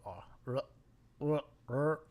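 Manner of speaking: 'r' made at the back of the throat; gargled French 'r' on its own; throaty French R. Shown as a demonstration. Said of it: "throaty, back of the throat".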